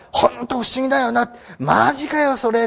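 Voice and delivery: lightly acted wonder; amazed disbelief. Shown as a demonstration. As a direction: read it like you can't believe it. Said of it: "っていうふうに読んでねってことなんです".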